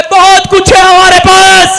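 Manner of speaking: slow, loud, booming declaration; booming proclamation. Acted. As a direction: proclaim it slowly like God. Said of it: "परमेश्वर बोलता है".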